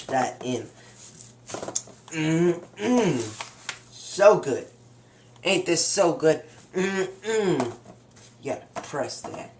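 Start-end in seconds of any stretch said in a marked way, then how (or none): 2.1-7.7 savouring. Real, not acted. Savouring the food. 8.4-9.5 whispered, almost no voice. Real, not acted. Pressing breading down.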